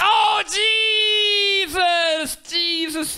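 high, loud cry of disbelief; shocked outburst. Real, not acted. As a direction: blurt it out high in real shock. Shocked reaction to the clip's slur.

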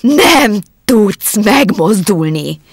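very slow, loud, hypnotic "Nem tudsz megmozdulni!". Acted. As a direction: stretch every syllable, willing him frozen. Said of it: "ismételte Alex".

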